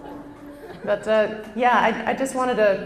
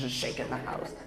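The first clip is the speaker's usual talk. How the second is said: hushed rumble; 8 semitones lower, 13 dB quieter than usual. Pretend. Rumble after booming child.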